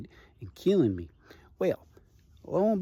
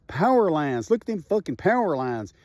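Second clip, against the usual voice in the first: higher, urgent warning about the power lines; alarmed warning; 5 semitones higher, 4 dB louder than usual. Retold or imitated. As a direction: point at the danger, alarmed. Paul warns of sparking power lines.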